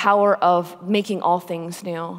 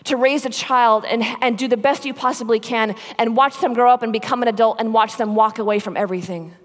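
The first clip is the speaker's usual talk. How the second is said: impassioned mother; 4 semitones higher, 4 dB louder than usual. Retold or imitated. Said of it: "She's like".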